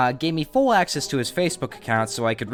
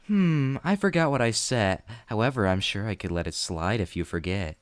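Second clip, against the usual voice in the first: creepy teacher voice; 4 semitones lower than usual. Acted. Voicing teacher's creepy messages.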